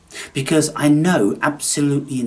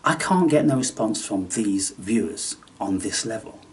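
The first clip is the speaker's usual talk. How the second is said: mock taunting aside. Taunting his silent viewers in a sly whisper. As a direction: tease the silent viewers in a hush.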